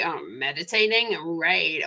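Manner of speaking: lightly American sceptical reply; a touch of American drawn into a dismissive response; American accent. Pretend. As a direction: put on a slight American tone of voice. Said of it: "Probably not in that very American tone of voice".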